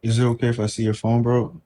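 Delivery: talking low on a worn-out voice; shot voice. Real, not acted. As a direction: voice giving out, keep it low. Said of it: "I'm trying to talk low 'cause my voice is, like, really shot".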